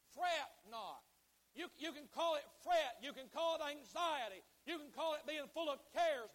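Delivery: loud, punched scripture phrases; emphatic preaching. Real, not acted. Preacher cites the Bible against fretting, emphatic preaching. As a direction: hammer each phrase like a preacher.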